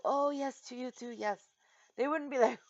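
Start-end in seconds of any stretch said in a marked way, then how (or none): 0.0-1.4 higher, mock-delighted acceptance; lightly voiced pleasant well-wisher; gracious reply. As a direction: imitate someone happily returning a greeting.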